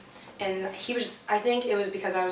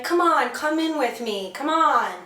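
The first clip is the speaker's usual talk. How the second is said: mock yell; 5 semitones higher, 3 dB louder than usual. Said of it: "I remember yelling to him".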